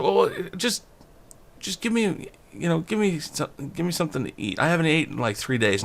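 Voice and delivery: high whiny plea; mock beggar pleading for food.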